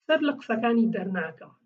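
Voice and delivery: "Ser laksakani dernaka" said clearly in Kurdish; Kurdish pronunciation demo. Shown as a demonstration. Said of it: "this is how you pronounce it".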